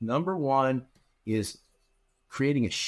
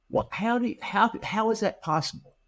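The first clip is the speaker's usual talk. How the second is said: mock disbelief; 9 semitones higher than usual. Mock listener asking in disbelief.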